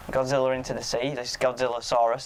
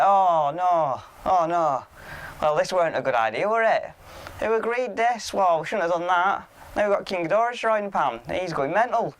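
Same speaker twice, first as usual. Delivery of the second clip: mock panic; 6 semitones higher than usual. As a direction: play a fake horrified "oh no" at the blunder. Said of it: "I'm like".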